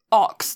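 ox with a short rounded O. Shown as a demonstration. Friend coaching co-host, ox with rounded O. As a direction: say "ox", rounded, as for the animal. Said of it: "the animal".

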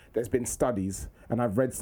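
low, scholarly pupil voice; formal schoolboy impression. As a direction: mimic a kid citing research in earnest. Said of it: "How comes you talk like this?".

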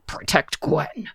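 snarling fiery hellhound. Acted. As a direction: growl it out like a beast. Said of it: "you hear a growling voice say".

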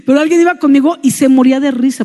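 normal talking voice

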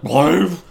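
big dog bark, shouted; loud woof imitation. Big dogs jumping up at people, loud mock bark. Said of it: "they're like".

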